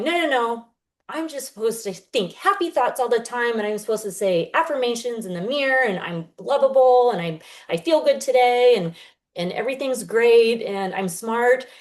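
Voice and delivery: exaggerated fake-cheerful self-talk, slowing on smart; mocking affirmations. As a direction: parody someone forcing cheery self-talk. Mocking forced positive affirmations.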